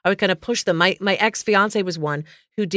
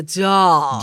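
long drawn-out "dahling"; imitating a singer; 2 semitones lower than usual. Retold or imitated. Host blaming the singer for the affected word, drawn-out dahling. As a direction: stretch "darling" affectedly. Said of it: "Mariah is the one who has done".

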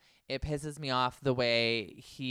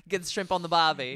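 hammed-up Australian accent; mock Australian accent; 3 semitones higher, 3 dB louder than usual. Host showing off to co-host, mock Australian accent. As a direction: put on a jokey Aussie accent. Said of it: "you're good at Australian".

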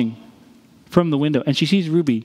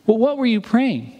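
curious teacher; 7 semitones higher than usual. Retold or imitated. Teacher questioning Ruby.

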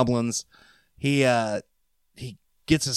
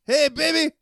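leering catcall; 14 semitones higher than usual. Retold or imitated. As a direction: call out to a woman, leering. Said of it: "and he's like".

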